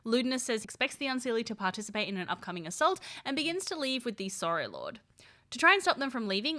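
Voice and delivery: steady recap read; recap narration. A narrator's reading. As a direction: summarize the episode for viewers.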